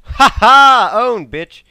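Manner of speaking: very loud, high triumphant taunt; gloating shout. Real, not acted. Gamer taunting the enemy he just killed. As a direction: crow over the kill.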